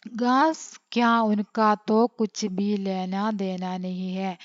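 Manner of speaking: slow, measured Hindi reading; textbook read-aloud. A narrator's reading. Teacher reading a Hindi story to an online class, slow read-aloud. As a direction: read the passage out slowly, phrase by phrase.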